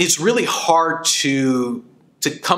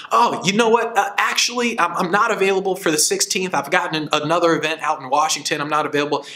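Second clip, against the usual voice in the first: breezy raised voice easing down to normal, politely declining; feigned busy regret; 4 semitones higher than usual. Retold or imitated. Friend tells the caller he's already booked, breezy then settling. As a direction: act booked solid, letting it settle.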